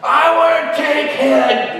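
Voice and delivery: put-on high, loud, drawn-out drunk heckle; imitating a slurring drunk, hollering; drunken holler. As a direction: holler it like a plastered man in a crowd. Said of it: "hollering out, his speech was slurred".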